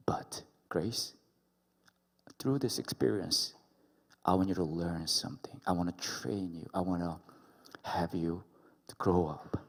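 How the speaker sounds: hushed, near whispered divine teaching; soft God voice. Retold or imitated. God softly telling Grace to learn and grow. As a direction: breathe it gently, as God coaxing. God gently speaks lesson.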